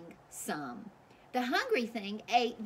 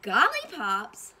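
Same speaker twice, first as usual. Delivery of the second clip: louder, slow baffled echo; surprised cry; 4 semitones higher, 9 dB louder, slower than usual. Acted. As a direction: repeat it in disbelief. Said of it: "cried the townspeople".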